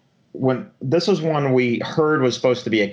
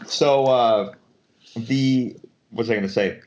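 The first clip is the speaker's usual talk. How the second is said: talking right after swallowing water; words squeezed out after a swallow; swallowing mid sentence. Real, not acted. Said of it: "Sorry, I was swallowing, like, down the wrong pipe".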